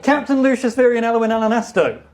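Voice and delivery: rattled off fast. Real, not acted. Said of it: "ever said it that fast".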